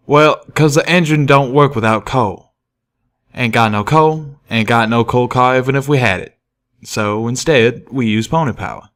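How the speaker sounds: folksy train pony. Acted. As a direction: explain like a simple hick worker.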